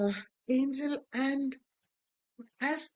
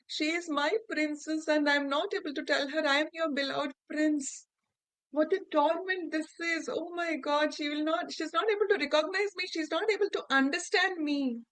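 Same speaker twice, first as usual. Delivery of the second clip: higher, quickening cry of mild torment; anguished lament; 4 semitones higher than usual. Acted. Fox prince lamenting he cannot reach his princess, anguished. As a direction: let the grief rise and rush at the end.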